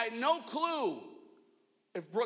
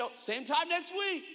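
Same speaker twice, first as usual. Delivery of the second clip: casual alternative; 8 semitones higher than usual. Shown as a demonstration. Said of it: "Or I could have even said".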